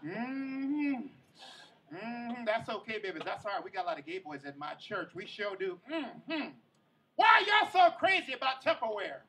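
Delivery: half-lit grandma comforting her grandson; tipsy grandma. Retold or imitated. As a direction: coo soothingly, then blurt the question. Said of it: "Grandma's drinking".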